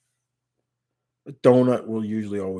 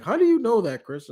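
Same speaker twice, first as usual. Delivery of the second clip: much higher, mock-incredulous voice; imitated puzzled question; 12 semitones higher than usual. Coworkers questioning Chris about the accent, imitated high puzzlement. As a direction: imitate coworkers asking in high-pitched disbelief.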